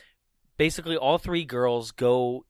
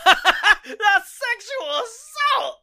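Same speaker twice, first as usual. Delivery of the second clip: slow high laughing yell; laughing shout; 6 dB louder, much slower than usual. Retold or imitated. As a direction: shout it while cracking up. Crowd quoted, laughing shout.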